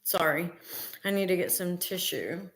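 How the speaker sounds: low-key, hushed interruption to the talk; quiet aside. Real, not acted. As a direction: drop the volume for a brief excuse. Steps away to get tissue.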